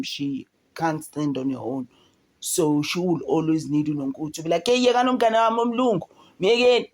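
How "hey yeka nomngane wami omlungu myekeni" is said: fast, high, loud mock defence; voicing Nonku defending her friend; mock defensive friend. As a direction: snap it out protectively.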